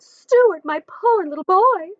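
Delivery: high, fretful mother's cry; pitying mother. Acted. Mother fussing over her chilled son, high and pitying. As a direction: fuss over him like a worried mom. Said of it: "she cried".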